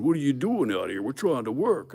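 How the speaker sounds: retold confrontation. Retold confrontation on job site.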